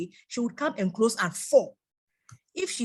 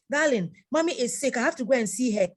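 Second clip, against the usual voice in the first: pleading wife; 4 semitones higher, 3 dB louder than usual. Retold or imitated. Wife pleading in acted dialogue.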